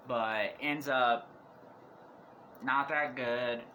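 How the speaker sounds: slow, hoarse and worn out. Real, not acted. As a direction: rasp through a tired voice. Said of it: "I'm losing my voice".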